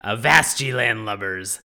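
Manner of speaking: salty sea captain voice; gruff old fisherman. Acted. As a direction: read it like an old sailor's tale. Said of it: "That was nicely done. Very nautical of you".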